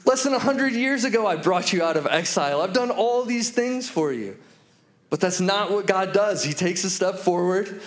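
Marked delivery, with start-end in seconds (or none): 0.0-4.4 pitched-up, exasperated listing; mock annoyance, reminding them of all that was done; annoyed God. God answering the Israelites' ungrateful question, imagined as annoyed. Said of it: "I expect God to be annoyed".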